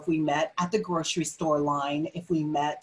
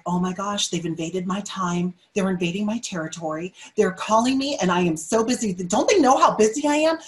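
rising into an irritated, louder rant; mock-annoyed inner voice that ends loud; exasperated busy person; 3 dB louder than usual. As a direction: play the harried callee losing patience. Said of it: "a person that's in the middle of something could be like".

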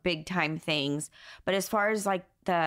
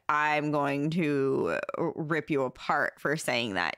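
mock furious threat; 2 semitones lower than usual. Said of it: "like, straight".

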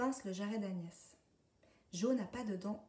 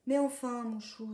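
much louder, higher shocked cow; indignant Madame la Vache; outraged exclamation; 4 semitones higher, 7 dB louder than usual. A narrator's reading. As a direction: cry out as dung lands on your head. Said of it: "s'écrie celle-ci".

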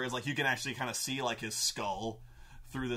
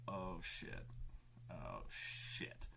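whispered low oh shit; hushed alarm; 6 semitones lower, 14 dB quieter, much slower than usual. Retold or imitated. Disguised party spotting Tempest in the crowd, whispered dread. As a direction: breathe it under the crowd's notice. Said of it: "and the party's like".

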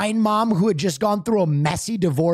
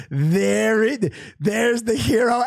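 hero shout; 3 semitones higher, slower than usual. Retold or imitated. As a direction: call it across the lobby. Desk woman greeting him.

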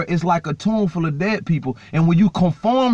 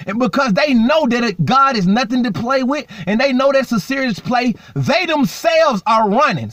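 higher-pitched, urgent preaching; impassioned preaching; 5 semitones higher than usual. Real, not acted. Preacher warns listeners that demons are running from hell, impassioned preaching. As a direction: press the point home from the pulpit.

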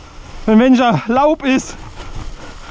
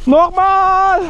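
higher goblin voice; squeaky little kobold; 7 semitones higher than usual. Acted. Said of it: "Ich hab die Koboldstimme wieder drauf".

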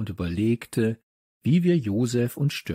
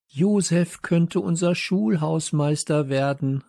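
higher-pitched exclamation; excited call; 6 semitones higher than usual. A narrator's reading. Boy announces the plan to his friends, exclaiming. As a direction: announce the discovery, voice lifted. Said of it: "rief Leo".

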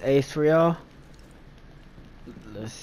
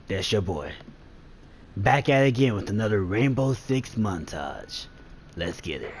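movie voice. Pretend. Gamer introducing the squad's Rainbow Six montage, movie voice. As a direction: announce the lineup like a movie voiceover. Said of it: "movie voice".

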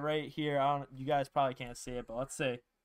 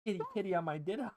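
sultry voice; 3 semitones higher, 5 dB quieter, faster than usual. Pretend. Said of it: "Interesting take on Sultry".

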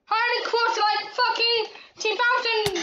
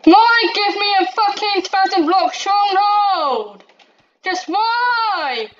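angry yell; 6 dB louder than usual. Real, not acted. Raging at the game's stronghold.

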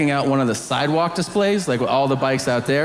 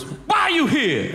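mock prisoner question; 11 semitones higher than usual. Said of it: "the prisoner goes".

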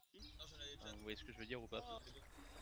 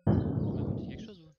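loud, slow call over rotor noise; yelling over helicopter; 4 semitones higher, 13 dB louder than usual. Acted. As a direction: shout it so he hears over the chopper. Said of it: "j'entends pas avec l'hélicoptère".

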